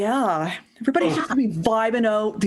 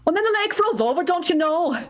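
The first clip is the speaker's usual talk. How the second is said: put-on Minnesotan accent; 4 semitones higher than usual. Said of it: "some Minnesotan".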